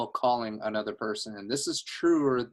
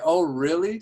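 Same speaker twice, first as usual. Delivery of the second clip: higher, louder show of interest; sound excited; 5 semitones higher, 6 dB louder than usual. Shown as a demonstration. Coach shows how to react to what callers share, excited interest. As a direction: react as if fascinated. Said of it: "Sound excited".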